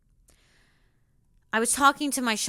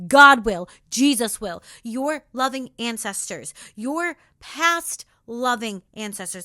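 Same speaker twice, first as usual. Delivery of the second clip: emphatic declaration; 6 dB louder than usual. Real, not acted. Emphatic answer in pep talk.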